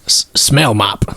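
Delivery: slow breathy whisper into the cupboard. Pretend. Player whispering a knock-knock punchline into the cupboard. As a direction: whisper the punchline through the wood.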